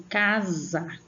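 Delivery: CASA with the first syllable stretched; sílaba forte. Shown as a demonstration. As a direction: put force into the CA of casa. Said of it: "colocando força pra pronunciar ela". (ênfase no CA de casa)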